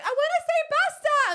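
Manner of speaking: put-on very high, loud child's yell; shouting kid. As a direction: imitate an over-excited kid. Imitates excited kid.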